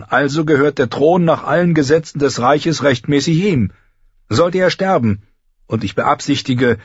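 lightly voiced lord reasoning before his council; earnest young lord. Robb argues the succession.

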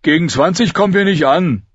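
high, tearful character voice; high-pitched, whiny dismay; close to tears. A narrator's reading. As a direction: protest as if about to cry. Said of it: "als würde er im nächsten Moment zu heulen anfangen".

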